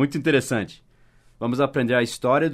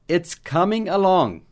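slow, higher, each word laid out for learners; slow model line; 6 semitones higher, slower than usual. Shown as a demonstration. Teacher modelling the English phrase for students, slow and clear. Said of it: "Daí o Scott Adams respondeu assim".

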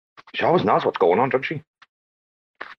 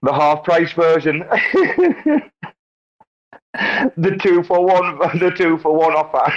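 laughing joke; 7 semitones higher than usual. Real, not acted. Joking, breaking into laughter.

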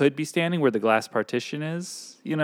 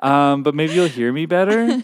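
passive-aggressive; 3 semitones higher, 6 dB louder than usual. Retold or imitated. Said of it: "passive-aggressive".

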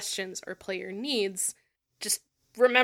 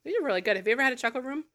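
eating while talking; mouth full; much faster than usual. Real, not acted. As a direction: talk through a bite of food. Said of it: "finish your mouthful".

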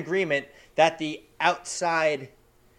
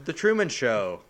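dramatic announcer; 2 semitones lower than usual. Pretend. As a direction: announce each title like an awards show. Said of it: "Dramatically, please".

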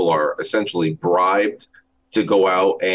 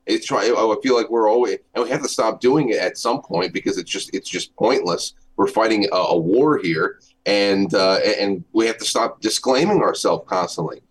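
tin can sound; 2 semitones higher than usual. Real, not acted. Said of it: "You sound like you're in a tin can".

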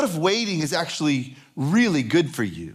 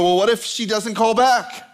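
higher-pitched worried "what if she doesn't call back"; mock freaking out; 4 semitones higher than usual. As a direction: fret theatrically over "doesn't call back". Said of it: "So we start freaking out".

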